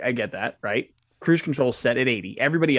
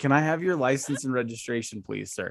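put-on chuckle while speaking, quieter; 4 dB quieter than usual. Retelling what a man said to the speaker, retelling someone chuckling. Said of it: "he's chuckling at this time".

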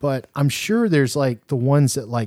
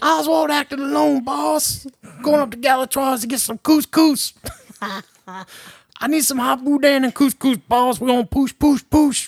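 mocking bad put-on Southern accent, higher pitch; 13 semitones higher than usual. Making fun of the accents in a movie: mocking a fake movie southern accent. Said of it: "just the accents in this movie".

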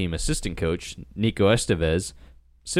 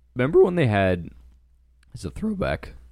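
voice cracking mid-phrase, adolescent-style break; 4 semitones higher than usual. Co-host talking on a show, voice cracking. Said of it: "You just had the little like puberty voice break there".

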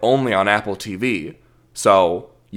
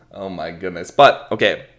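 ordinary delivery

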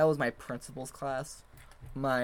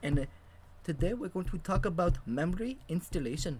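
put-on high, flat, even-toned Indian accent; 5 semitones higher than usual. Speaker imitating their CS 100 instructor for a friend: Mr. Asotti Indian accent impression. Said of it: "in a freaking indian accent".

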